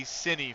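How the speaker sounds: "Cincy" said as "Cinny"; "Cincy" rhyming with skinny; mispronounced nickname. Retold or imitated. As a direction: drop the second s sound in "Cincy". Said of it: "It's not Cincy".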